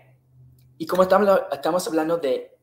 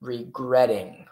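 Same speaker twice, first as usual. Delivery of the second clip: slow demo; slower than usual. Shown as a demonstration.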